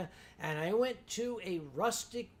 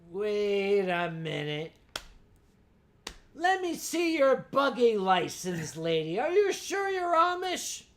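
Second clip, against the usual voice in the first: mock suspicious; 6 dB louder than usual. Mock suspicion at Amish lady.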